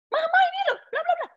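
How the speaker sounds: mock the kid barking at his mother like a maid; mimicking the rude kid. Kid talks to his mama like a servant, mocking high voice. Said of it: "caranya anaknya ngomong sama mamanya".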